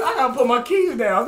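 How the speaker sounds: ordinary talk, nothing marked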